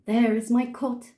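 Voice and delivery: put-on poetry recital in an English accent; measured English-accented verse reading. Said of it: "I'm gonna do it in an English accent".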